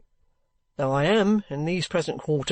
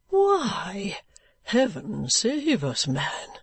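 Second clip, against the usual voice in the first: surprised vehement outburst; much slower than usual. Acted. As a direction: burst out in startled old vehemence. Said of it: "exclaimed my guardian, surprised into his old oddity and vehemence".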